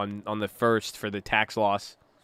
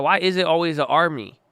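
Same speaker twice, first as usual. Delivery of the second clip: mock-dramatic reread; 4 semitones higher, 4 dB louder than usual. Shown as a demonstration. Streamer rereads viewer's chat line with mock awe. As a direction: savor the line like it's profound. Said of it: "repeats chat line Why is it always an army".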